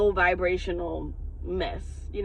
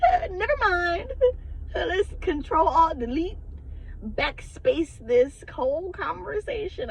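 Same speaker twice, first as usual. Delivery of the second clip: laughing retreat; 9 semitones higher than usual. Retold or imitated.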